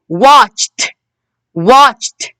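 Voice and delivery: "watched" ending in a released t; teacher's model "watched", final t set apart; final t sound. Shown as a demonstration. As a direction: say "watched" with ed as a crisp t. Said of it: "We can hear the t sound".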